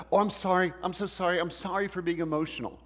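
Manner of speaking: high-pitched, gushing mock apology; apologetic. Someone apologizing for getting emotional, acted high-pitched apology. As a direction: act out over-apologizing, pitched well up. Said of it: "we apologize for it".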